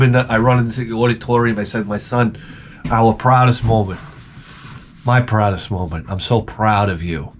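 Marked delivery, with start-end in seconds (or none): 1.9-7.3 lower, hushed fatherly pride; mock proud father. Father runs in to his winning son, understated mock-solemn pride. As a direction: say it low, with a touch of tenderness.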